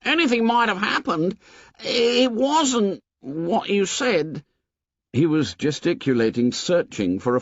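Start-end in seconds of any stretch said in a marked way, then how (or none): 0.0-4.4 high, slow anxious excuses; high anxious Piggy; agitated boy. A narrator's reading. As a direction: explain it away urgently.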